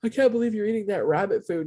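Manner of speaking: mild mock alarm, pitch lifted at the start; mock freak-out. People reacting to your healthy eating, mock freak-out. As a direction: imitate fretting critics with a touch of panic. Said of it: "everybody freaks out".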